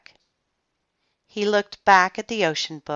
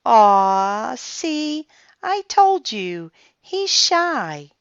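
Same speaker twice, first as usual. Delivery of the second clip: put-on young girl voice; 7 semitones higher, 6 dB louder, much slower than usual. A narrator's reading. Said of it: "said Annie".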